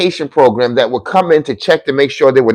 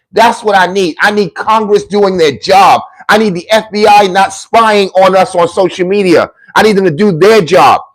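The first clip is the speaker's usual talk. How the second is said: higher, raised ranting voice; ranting shout; 5 semitones higher than usual. Real, not acted. Lecturing critics on stream, a raised, heated shout. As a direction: push it out like a street-corner rant.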